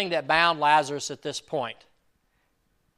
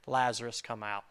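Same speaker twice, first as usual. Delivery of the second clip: timid, softer call fading away; afraid to say it; 3 semitones lower, 5 dB quieter than usual. Shown as a demonstration. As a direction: say it as if scared to be heard. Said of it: "I'm so afraid to say".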